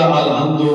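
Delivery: weaken the h in আলহামদু; mispronounced. Shown as a demonstration. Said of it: "তা আলহামদুর শব্দ অর্থ করতে গেলে". (আলহামদু, ভুল উচ্চারণে হালকা হা দিয়ে)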